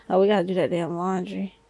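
unvoiced whispered aside; whispering. Real, not acted. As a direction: whisper it under breath.

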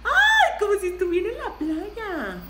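high, loud burst of delight with a laugh; delighted squeal. Real, not acted. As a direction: squeal happily at how it looks. Delighted reaction to the makeup colour. (chillido de emoción, agudo y risueño)

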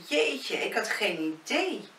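high-pitched, drawn-out dismay at the time; surprised exclamation. A narrator's reading. Lavinia sees how late it has got, surprised exclamation. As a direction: exclaim it high, stretching the words. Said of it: "riep ze uit".

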